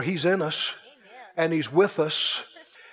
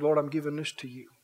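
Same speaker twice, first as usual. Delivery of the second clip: soft, lower offering to God; humble murmured dedication; hushed prayer; 5 semitones lower, 6 dB quieter, faster than usual. Acted. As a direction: pray it quietly and simply. David offers the water in prayer.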